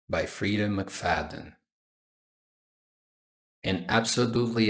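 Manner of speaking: audiobook-style reading, lightly measured; understated first-person storytelling; story narration. A narrator's reading. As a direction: read the novel aloud with measured pauses. Reads the novel aloud.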